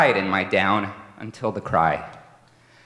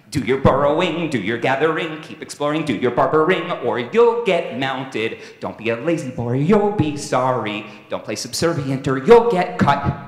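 louder, rising stern commands; stern warnings; 3 semitones higher, 6 dB louder than usual. Acted. Father warning his pup what happens if he's lazy, stern and loud. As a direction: drill the warnings into him, getting louder.

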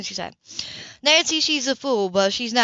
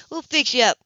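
shouting to her son; 4 semitones higher, 3 dB louder than usual. Acted. Mother calls across the store to her son, raised. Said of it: "she shouted over at her son".

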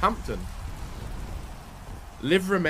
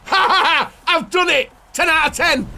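loud, high laughter of success; delighted cackling; laughing; 8 semitones higher, 5 dB louder than usual. Real, not acted. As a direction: laugh through the boast. Succeeding at a trick.

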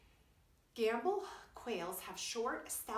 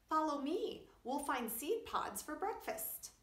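leader call; 7 semitones higher, 4 dB louder than usual. A narrator's reading. Quincy leads his family.

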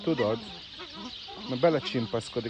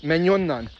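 raised voice shooing away; 3 semitones higher, 4 dB louder than usual. Real, not acted. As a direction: shoo it off firmly. (elhessegető kiáltás)

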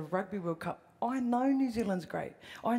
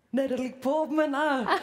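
laughing; 6 semitones higher, 5 dB louder than usual. Real, not acted. Laughs while fumbling a name.

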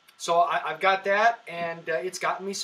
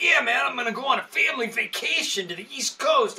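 higher, louder put-on dude voice; mock meth-head buyer; 7 semitones higher, 4 dB louder than usual. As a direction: play the shady buyer innocently lying. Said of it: "It's like".

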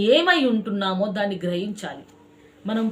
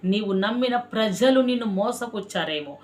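sermon. Acted. Pastor preaching to his congregation, fervent and rhythmic. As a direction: preach it with repeated cries of దేవుడే.

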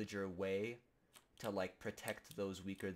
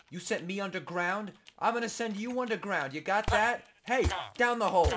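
much higher and louder, yelling; hammed-up rage; 11 semitones higher, 11 dB louder than usual. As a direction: roar the revenge at Tim. Raging at Tim in game.

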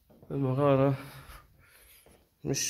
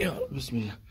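whispering; 4 dB quieter than usual. Real, not acted. Nervous prayer before slippery step.

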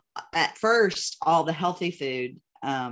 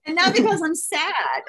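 laughing; 13 semitones higher, 5 dB louder than usual. Real, not acted. Laughing after husband quote.

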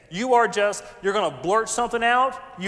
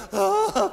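high, loud "ah" of pretend weeping; hammed-up tearful cry; mock crying wail; 6 semitones higher, 5 dB louder than usual. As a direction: imitate someone overcome in worship.

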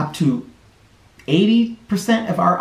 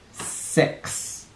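whispered; 8 dB quieter than usual. A narrator's reading. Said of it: "countdown number dropped to nothing".

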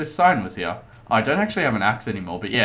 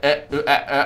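lightly imitated robotic glitching; mock robot stutter; 3 semitones higher than usual. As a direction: stutter one syllable like a voice cutting out. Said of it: "I sounded like a robot".

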